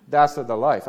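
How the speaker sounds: imitated Italian mother's English, extra vowel put in; heavy Italian accent. Preacher repeating his mother's saying, heavy Italian accent. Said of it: "She said it that way".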